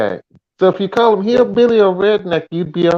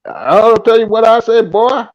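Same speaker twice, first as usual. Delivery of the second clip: put-on Deep South accent; 4 semitones higher than usual. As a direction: play up a Deep South good ol' boy twang. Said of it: "that's how a lot of people in the Deep South talk".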